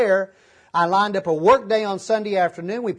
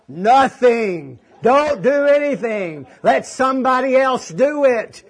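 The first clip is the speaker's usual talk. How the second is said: the voice of God, louder and higher, firm but kind; still small voice; 4 semitones higher, 4 dB louder, slower than usual. Retold or imitated. Preacher voicing God's reply to his plea, gentle authority. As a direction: speak as the calm voice answering from above. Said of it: "that still small voice quietly say".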